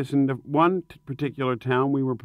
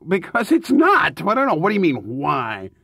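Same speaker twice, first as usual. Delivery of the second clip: exasperated; 3 dB louder than usual. Real, not acted. Singer snapping back at being asked why, exasperated. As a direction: bristle at being questioned.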